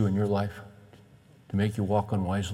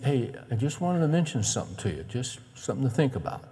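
acted gentle nudge, tailing off softer; careful and gentle; 5 dB quieter than usual. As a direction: softly raise a tactful suggestion. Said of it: "carefully and gently".

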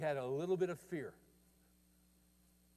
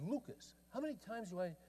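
stern father; 6 semitones higher, 5 dB quieter than usual. Retold or imitated. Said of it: "John said".

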